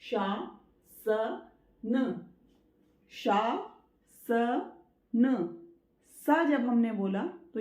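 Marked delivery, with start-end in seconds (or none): 0.0-3.7 शासन drawn out very slowly with a clear palatal श; slow correct pronunciation. Shown as a demonstration. Teacher modelling शासन slowly for the children. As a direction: stretch out शासन syllable by syllable. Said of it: "correct pronunciation है वो है अनुशासन".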